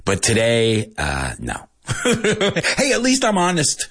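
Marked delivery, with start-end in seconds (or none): 2.8-3.9 giggling through the line; laughing at his own confession. Real, not acted. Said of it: "laughing at own meanness".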